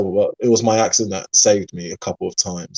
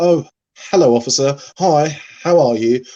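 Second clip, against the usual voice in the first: sheepish, apologetic, high and slow; 6 semitones higher, 5 dB louder than usual. Retelling how they greeted a police officer, retelling an apologetic greeting. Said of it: "a little bit also apologetic".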